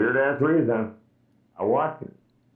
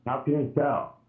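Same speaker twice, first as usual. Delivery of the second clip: into a pillow; 4 dB quieter than usual. Real, not acted. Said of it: "It sounds like you're talking through a pillow".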